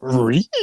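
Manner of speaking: half-hearted rising "ree" squeal; failed screech attempt. Joking with a friend about a discount, botched screech. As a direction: attempt a meme screech and fall short. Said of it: "I can't do it".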